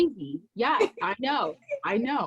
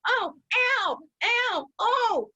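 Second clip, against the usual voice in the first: high, hammed-up little ows; imitating her old self's high fake ows; mock hurt cries; 13 semitones higher than usual. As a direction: whimper high as if poked. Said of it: "I'm like".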